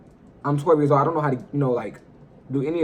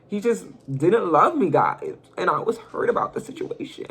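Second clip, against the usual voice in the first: mock hurt; 3 semitones higher than usual. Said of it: "No, I'm just playing".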